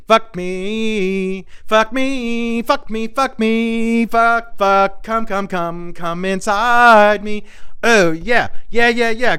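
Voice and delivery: high, mock-sultry moaning, drawn out; Olivia Culpo impression. Comic still voicing the model in bed, high mock moaning. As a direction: camp it up as a breathy lover. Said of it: "Here's Olivia, the model".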